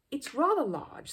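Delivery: slow, apologetic admission. A narrator's reading. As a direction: say it sorry, drawn out. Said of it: "said Mister Gruber apologetically".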